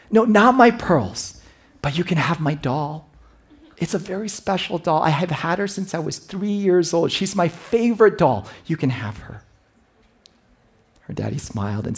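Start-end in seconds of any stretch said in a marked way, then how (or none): 0.1-9.4 put-on high child reply; sweet little girl. Daughter answering her father at bedtime. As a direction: answer brightly like a small daughter.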